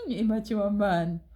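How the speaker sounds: laughing scorn. Real, not acted. Laughs at the husband.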